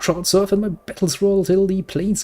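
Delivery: a demon claiming her soul; dark lord. Acted. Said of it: "That must be the fiend's tongue".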